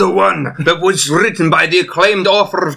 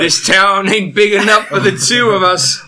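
put-on cowboy accent; 4 semitones higher than usual. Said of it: "You sound like a cowboy now".

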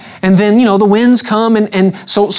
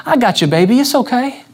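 tender comforting. Acted. Preacher plays a tender Jesus to sinking Peter, mock soothing. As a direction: soothe him gently, half joking. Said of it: "Is that what he said to him?".

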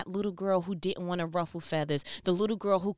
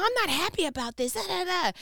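higher, mock complaining coworker; mimicking the coworker; 10 semitones higher, faster than usual. Mimicking the coworker's complaint to the boss. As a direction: whine it like the unhappy coworker. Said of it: "she ... was like".

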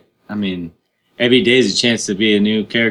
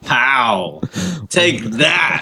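triumphant; 3 semitones higher, much slower than usual. Real, not acted. Triumphant cry.

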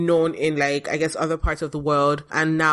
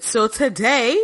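slow, high radio host voice; 6 semitones higher, slower than usual. Pretend. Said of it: "my radio host voice".

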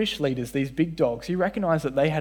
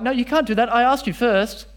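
put-on whiny kid; 8 semitones higher, 5 dB louder than usual. Voicing a child in church.

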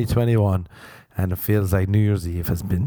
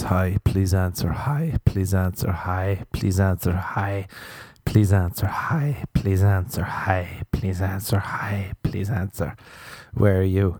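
mimicking repeated message; slower than usual. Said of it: "she just says".

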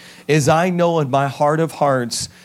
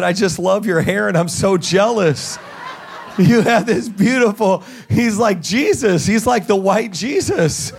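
laughing; 4 semitones higher than usual. Retold or imitated. Retelling teary chat with laughter.

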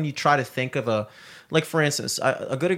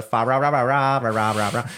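mock Japanese accent. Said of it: "they do the".

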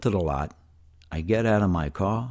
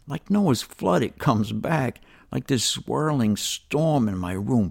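ordinary delivery, nothing marked

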